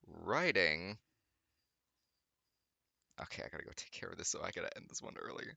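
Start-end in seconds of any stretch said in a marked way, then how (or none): 3.2-5.4 fast, soft whispered excuse; hurried whisper. Real, not acted. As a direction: rush it under your breath.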